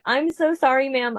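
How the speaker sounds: lightly put-on customer service apology. Cashier-style apology to a yelling woman, customer service voice. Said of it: "doing my best customer service voice".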